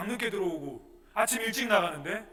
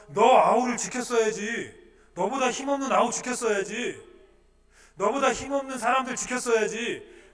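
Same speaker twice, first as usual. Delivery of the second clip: God rebuking; 7 semitones higher, 9 dB louder than usual. Acted. God scolding Cain for not protecting his brother.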